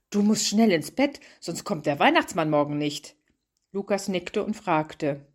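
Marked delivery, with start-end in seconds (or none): 0.1-3.2 mock fright. Mother hurrying her son to bed, mock alarm. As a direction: fake a little scare to hurry him along. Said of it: "mit gespielter Erschrockenheit".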